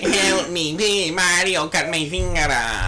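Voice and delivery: begging Luigi. Retold or imitated.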